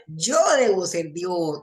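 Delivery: slow, self-satisfied cat voice; a cat who thinks it is God, unhurried; smug cat. Acted. The cat, given food, concludes it is God, slowly and smugly. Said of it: "el gato piensa".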